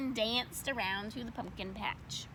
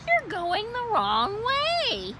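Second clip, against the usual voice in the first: teacher voice; 12 semitones higher, 5 dB louder, much slower than usual. Acted. Teacher correcting Froggy.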